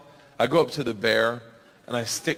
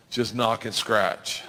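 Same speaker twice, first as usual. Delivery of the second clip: deadpan echo; 5 semitones lower, slower than usual. Retold or imitated. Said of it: "And he goes".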